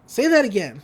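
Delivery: high, loud mock disbelief; shocked what. Mabel hears Dipper never wanted to move, stunned. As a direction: jump up in surprise. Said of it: "And she's like".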